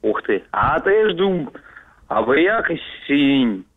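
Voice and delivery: backwards speech. Shown as a demonstration. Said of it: "умеешь поздравить задом наперёд".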